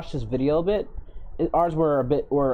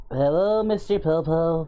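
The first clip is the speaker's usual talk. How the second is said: Goku voice; 3 semitones higher, slower than usual. Acted. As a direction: greet in a Goku voice. Greeting chat in character voice.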